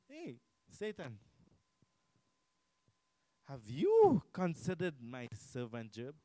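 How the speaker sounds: slow, drawn-out call to Satan with a hint of a divine voice; lightly voiced Lord, calling out slowly and emphatically; God calling out. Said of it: "God calls out your name".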